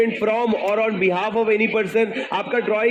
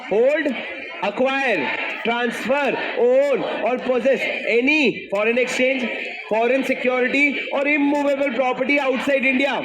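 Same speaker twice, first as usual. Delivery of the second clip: louder, punchier second recitation of the list; louder recital; 2 semitones higher, much slower than usual. Shown as a demonstration. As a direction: hit each word harder this time. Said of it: "हटो, हटो".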